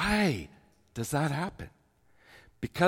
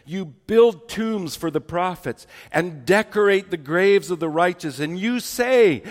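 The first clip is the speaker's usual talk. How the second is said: preacher reading Jesus' rebuke with force; forceful scripture reading. Acted. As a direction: thunder the woes at the hypocrites. Reads Jesus' rebuke aloud.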